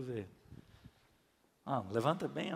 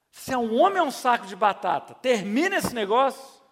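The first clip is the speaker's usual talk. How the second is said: louder and higher, fast rebuke; mock berating shout; 6 semitones higher, 9 dB louder than usual. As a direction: shame him into acting. Pastor berates friend to end it. (bronca alta e rápida de brincadeira)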